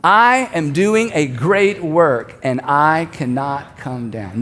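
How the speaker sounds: very slow, evenly spaced for a crowd; leading group recitation. Shown as a demonstration. Preacher leads everyone saying it together, slow recitation. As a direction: draw each word out, drop low at the close. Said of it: "I want us to say this again".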